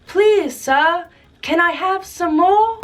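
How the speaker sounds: lightly voiced timid boy; polite little orphan. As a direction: ask meekly like a hungry orphan. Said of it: "he goes".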